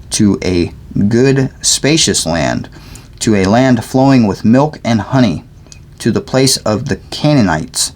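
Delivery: measured, deliberate Bible reading; scripture read aloud. Real, not acted. Reader sharing scripture aloud, measured reading. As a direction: read the passage aloud clearly.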